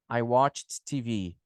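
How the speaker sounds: slow "watched" with a released T before "T V"; CH plus T ending. Shown as a demonstration. Teacher putting the ending back in the sentence, "watched" as "watch-t". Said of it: "Com C H".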